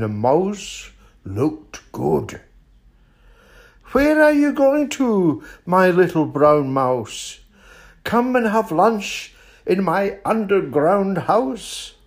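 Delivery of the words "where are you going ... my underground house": high, swooping fox invitation; storybook fox, sing-song and coaxing; inviting fox. Acted. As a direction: lure the mouse in with a lilting call. Fox figure invites the mouse.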